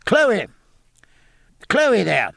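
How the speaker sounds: high, loud call through a door. A narrator's reading. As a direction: summon the servant from the next room. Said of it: "raising his voice".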